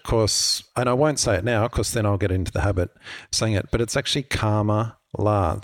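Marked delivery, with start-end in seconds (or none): 4.2-5.6 Kamala said like karma-la; correct pronunciation. Shown as a demonstration. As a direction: stress the first syllable of Kamala, as in karma. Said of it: "how to pronounce her name".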